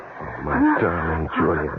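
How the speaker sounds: slow, choked mourning; grieving husband, perhaps putting it on; tearful grief. Acted. Husband at deathbed, faking grief.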